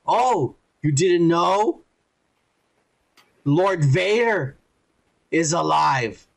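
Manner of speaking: slow, deliberate villain's revelation; slow taunting reveal. Retold or imitated. Reva revealing Vader to Obi-Wan, slowly and deliberately. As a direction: draw it out with long pauses.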